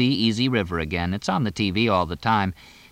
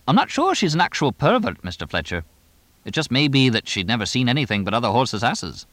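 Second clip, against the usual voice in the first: lightly voiced English trainer, starting high; chatty English trainer; 4 semitones higher than usual. Trainer excusing his horse to the owner, lightly voiced chatty role.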